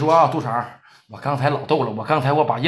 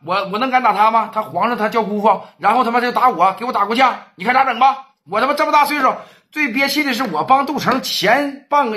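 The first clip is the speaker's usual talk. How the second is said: aggrieved complaint; 5 semitones higher than usual. Acted. Ye Laosan complaining on phone.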